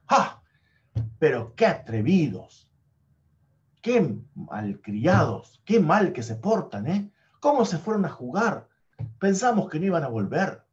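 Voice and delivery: a hammed-up stepmother telling the kids off; angry stepmother. Madrastra regañando a los niños que volvieron, enojo fingido.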